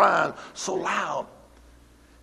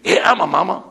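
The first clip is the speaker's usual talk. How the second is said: snippy retort; 6 dB louder than usual. Retold or imitated. Snippy woman answers him.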